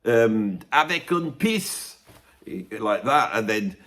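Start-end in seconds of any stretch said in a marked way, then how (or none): 0.7-2.0 mock French child, a little slow; a hint of a French kid's accent. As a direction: put on a light French accent. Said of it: "children are there going".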